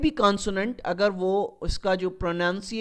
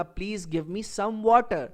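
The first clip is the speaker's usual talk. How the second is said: slow correct example; 3 semitones higher, much slower than usual. Shown as a demonstration. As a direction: say it slowly, with a clear "some" before water. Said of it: "اس کا صحیح جملہ جو بنے گا". (صحیح جملہ، آہستہ "some water")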